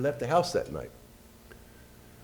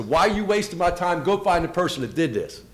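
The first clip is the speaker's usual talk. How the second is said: retold telling-off, louder and higher; indignant outburst; 7 semitones higher, 5 dB louder than usual. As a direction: throw it back at the detective, voice raised. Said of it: "I told him what I thought of him".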